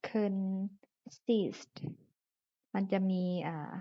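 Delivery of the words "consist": consist slowly as kern... SIST; careful model pronunciation. Shown as a demonstration. Teacher models the ending for students, consist with clear s-t. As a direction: split consist, sounding both final s and t. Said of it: "คำนี้อ่านว่า consist".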